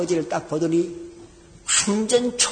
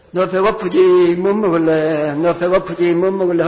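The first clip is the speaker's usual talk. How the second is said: a stiff, slow practised kindness; a clumsy tough man rehearsing gentle words; awkward rehearsal; 5 dB louder than usual. Retold or imitated. Father rehearsing his lines, stiff and slow. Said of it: "연습을 하러 왔더니".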